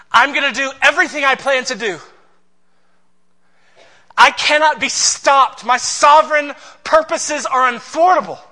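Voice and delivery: loud, high declaration of power; speaking as God, big and forceful; God's bold voice. Acted. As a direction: proclaim it as God, booming. Voicing God's unstoppable purpose.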